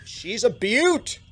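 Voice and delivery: slow, high Siluese admiration; slow Siluese accent. Acted. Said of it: "Siluese accent".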